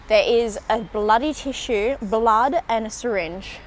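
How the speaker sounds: loud, shocked exclamation of disgust. Real, not acted. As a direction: blurt it out in horror. Finds blood and syringe on street.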